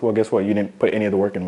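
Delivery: usual speaking voice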